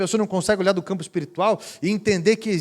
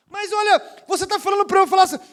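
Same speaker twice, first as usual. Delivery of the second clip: put-on woman voice; 13 semitones higher, 4 dB louder, faster than usual.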